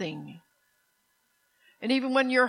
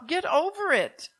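slower, deliberate, stressing over; harsh; 5 semitones higher than usual. Real, not acted. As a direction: drag it out firmly, leaning on over. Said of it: "I know I sound harsh".

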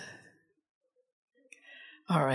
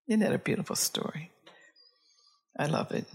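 whispered; 2 semitones higher, faster than usual. Real, not acted. Preacher savouring the story.

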